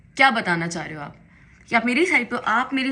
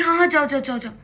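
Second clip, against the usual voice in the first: higher, louder sarcastic go-go; mocking dismissal; 6 semitones higher, 6 dB louder than usual. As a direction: brush her off with a sneering imitation. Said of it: "तो कह रही".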